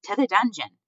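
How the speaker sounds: high, loud cry from a crowd. A narrator's reading. Mouse in the front row demanding punishment, crying out. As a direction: call loudly for the dungeon.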